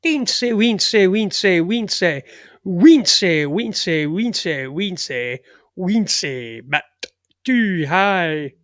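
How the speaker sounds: singsong Scottish "wince" repeated, rising; mock Scottish chant; Scottish accent. Host doing a Scottish accent for listeners. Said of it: "hear my Scottish accent there".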